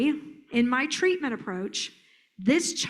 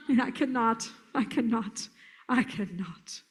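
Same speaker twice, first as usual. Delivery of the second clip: weary defeat. Acted. Trainer imitating the I-cannot kid, wearily sinking. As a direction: give up a little more each time.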